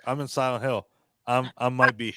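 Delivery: low, soft, uncaring quote; didn't give a fuck. Retold or imitated. Retelling an actor who didn't care, indifferent. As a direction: toss it off low, like you don't care. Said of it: "He was like".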